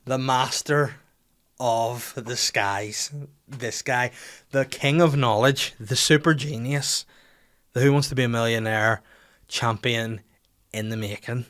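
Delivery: sarcastic slow hailing of a genius; mock grand praise. Teasing Ben for knowing the sun god, in mock awe. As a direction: lay the flattery on thick and slow.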